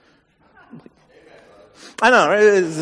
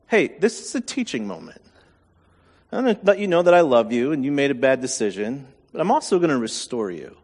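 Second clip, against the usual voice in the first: gentle teaching voice; 3 semitones lower, faster than usual. Retold or imitated. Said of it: "In my wife's head".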